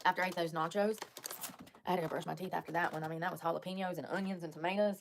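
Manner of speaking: toothpaste in mouth. Real, not acted. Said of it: "I still have toothpaste in my mouth".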